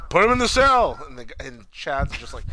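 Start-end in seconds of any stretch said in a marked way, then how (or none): 0.1-1.0 pitched way up, parroting; high mocking echo. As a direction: echo it back in a squeaky voice. Echo repeated much higher.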